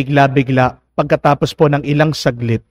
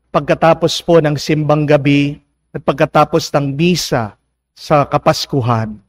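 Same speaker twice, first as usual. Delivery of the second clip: ordinary talk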